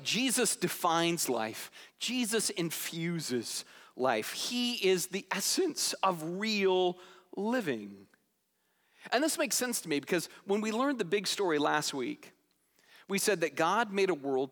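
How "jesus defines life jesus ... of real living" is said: slow and hushed, earnest; sincere conviction. Retold or imitated. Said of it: "He's like".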